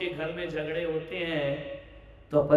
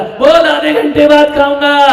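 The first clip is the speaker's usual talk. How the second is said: higher, louder mock-grumble; grumpy father reply; 8 semitones higher, 16 dB louder than usual. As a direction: toss it off like a stubborn husband. Father's reply via child.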